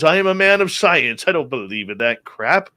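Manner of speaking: lightly imitated British man of science; British accent. Skeptical doctor scoffing at patient, mock British accent. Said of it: "in his British accent".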